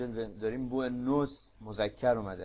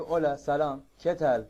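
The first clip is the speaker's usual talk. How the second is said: cheerful greeting; 3 semitones higher, 5 dB louder than usual. Retold or imitated. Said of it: "ما جواب میدیم".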